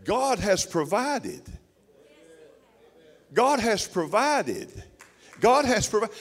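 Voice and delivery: slow, deliberate declaration, each word weighted; slow solemn proclamation. Acted. Preacher insisting God provides, slow and emphatic. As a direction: lay it down slowly, word by word.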